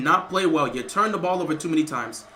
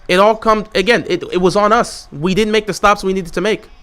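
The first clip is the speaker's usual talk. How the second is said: much louder, hurt and worked up; emotional loud rant; 8 dB louder than usual. Real, not acted. Fan ranting to chat after the loss, loud and hurt. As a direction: vent it all out at full volume. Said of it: "I'm hurt, I'm emotional right now".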